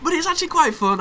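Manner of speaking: tickled by the mess; high giggling. Real, not acted. Gamer giggling high as the fight turns chaotic.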